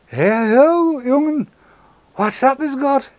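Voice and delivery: high, loud Geordie local asking about the vape; Geordie patois. Retold or imitated. Curious Geordie stranger asking the vaper what he's holding, in broad Geordie. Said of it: "go into a slightly Geordie patois".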